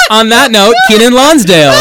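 loud, laughing announcement. Real, not acted. Laughing introduction.

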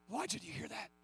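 hushed, breathy call to come close; soft whispered invitation. Shown as a demonstration. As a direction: drop to a near whisper, as God calling.

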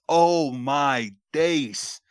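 slow, drawn-out London slang; British slang. Shown as a demonstration. Friend tries out London slang, slow and drawn out. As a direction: stretch it out like a Londoner. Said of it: "give me all the slang words".

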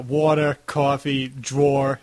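word list in Long Island vowels; Long Island accent. Shown as a demonstration. Podcaster mocking own accent, Long Island sound. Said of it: "my terrible accent there".

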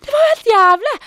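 high, loud outburst; loudly exclaiming it was awful; loud exclamation. Real, not acted. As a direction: exclaim it, half laughing. Recalling vomiting with head wound.

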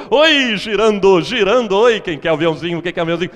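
hammed-up game-show host shouting to the audience; Silvio Santos impression. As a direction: belt it like the Sunday TV show host. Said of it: "vocês sabem como é que imita Silvio Santos".

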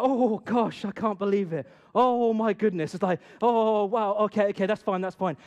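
a touch of flustered shock; sudden realization. Retold or imitated. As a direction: catch yourself in surprise and backtrack. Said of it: "the spirit changes on the table".

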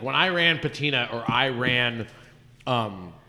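talking while chewing chicken; eating chicken. Real, not acted. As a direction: mouth full of fried chicken. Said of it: "I'm eating chicken in the microphone".

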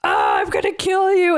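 mock angry threat; put-on attacker's voice, lightly played; Logan. Acting Logan smashing in, threatening.

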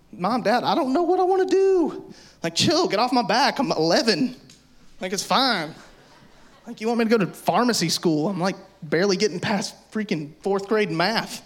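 put-on high, whiny eleven-year-old pleading; a kid begging the parents to back off. Pleading with Mom and Dad to back off, whiny kid voice. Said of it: "and you're like".

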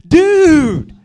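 sudden high yell of surprise; surprised shout. Retold or imitated. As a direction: blurt it out loud like a startled friend. Friend startles him at the door.

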